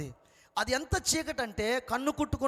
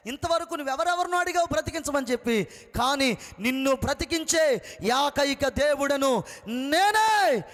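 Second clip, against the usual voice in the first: voice of God; 3 semitones higher, 6 dB louder than usual. Retold or imitated. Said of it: "అనే మాట స్పష్టంగా నా చెవులకు వినబడుతుంది".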